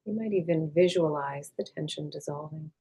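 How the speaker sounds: calm, unhurried meditation voice with long pauses; guided meditation. Acted. Meditation teacher leading listeners to release tension, calm and unhurried. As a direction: gently guide them inward, leaving space after each phrase.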